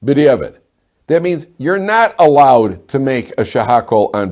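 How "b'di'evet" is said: clear repeat for the class. Real, not acted.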